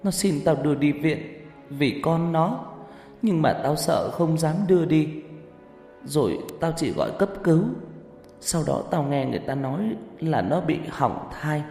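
lightly voiced weeping girl; tearful confession. A narrator's reading. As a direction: confess a buried secret while weeping. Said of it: "Nó vừa khóc, vừa lầu bầu kể".

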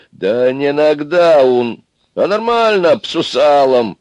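high, loud, stretched-out outburst; loud indignation. A narrator's reading. Простой человек corrects the others, loud indignation. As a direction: protest loudly, drawing the words out. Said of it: "громко возмутился и простой человек".

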